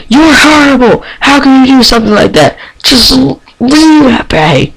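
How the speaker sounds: high, loud tearful accusation; crying shout. Acted. Teenage girl in a vision screaming at him, crying. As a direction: scream at him through tears. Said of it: "shouting at you, crying".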